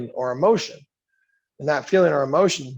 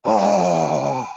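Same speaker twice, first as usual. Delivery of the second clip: mock anguish; 6 semitones lower than usual. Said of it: "I'm in a frenzy now".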